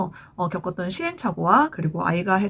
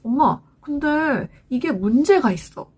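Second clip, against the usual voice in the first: lightly voiced child, slow and drawn out; a hint of a kid reporting to mom; imitated child; 3 semitones higher than usual. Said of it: "아이가 그래요".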